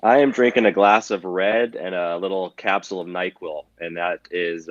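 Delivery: stuffy, nasal cold voice. Real, not acted. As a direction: talk through a blocked nose. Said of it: "I apologize already for the nasal, nasally voice".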